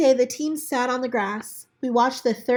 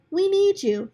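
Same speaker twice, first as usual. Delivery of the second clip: put-on higher, friendly kid's voice; lightly voiced boy; 9 semitones higher, 3 dB louder than usual. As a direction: encourage a sad friend. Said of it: "Michael said".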